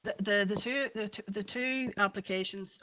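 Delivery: stumbling over the first words; stuttering. Real, not acted. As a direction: repeat the opening words haltingly. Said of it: "Sorry, I'm stuttering here".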